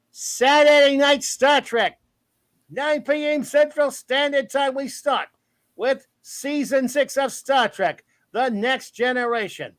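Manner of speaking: playful mock-announcer tone; silly put-on voice. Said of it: "And I don't know why I'm talking like this".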